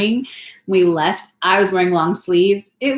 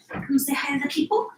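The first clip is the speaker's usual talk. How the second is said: soft, higher coaxing; 7 semitones higher, 7 dB quieter than usual. Real, not acted. Mom asking her son to greet the people, soft baby talk.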